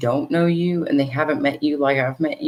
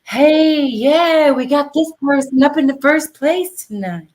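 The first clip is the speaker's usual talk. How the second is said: much higher, louder announcer-ish put-on voice; soft radio voice; 10 semitones higher, 5 dB louder than usual. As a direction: mimic a smooth radio host. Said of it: "I need to put on this soft voice".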